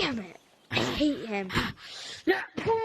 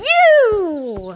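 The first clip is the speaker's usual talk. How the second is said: shouted accusation; 5 semitones higher, 5 dB louder than usual. Acted. Guard meets hated animatronic.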